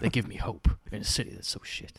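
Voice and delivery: lightly played hard-boiled voice-over; understated Sin City monologue; noir narrator. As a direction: confide it like a jaded detective. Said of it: "yeah, like that, like Sin City".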